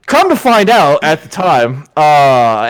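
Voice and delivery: ordinary talk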